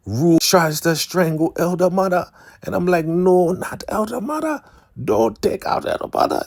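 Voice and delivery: very high, squeaky put-on protest; mock dismay. Viewer pleading for Elder Mother's life, squealed mock dismay. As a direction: squeal it in pretend horror.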